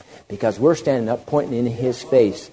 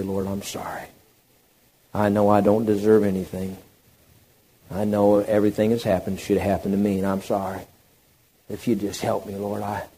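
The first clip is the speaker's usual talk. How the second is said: humble contrition. Acted. Penitent at the Lord's feet, humble contrition. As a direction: plead it meekly, trailing away. Models humble prayer of apology.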